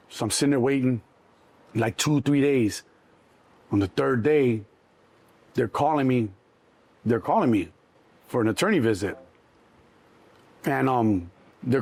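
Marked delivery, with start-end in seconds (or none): none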